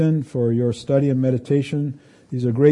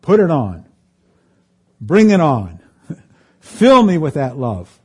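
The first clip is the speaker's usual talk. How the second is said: fervent exhortation; 5 dB louder than usual. Real, not acted. Fervent call to embrace love.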